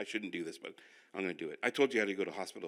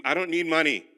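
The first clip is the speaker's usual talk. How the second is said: wife refusing; 5 semitones higher, 10 dB louder than usual. Retold or imitated. Wife refusing money, retold.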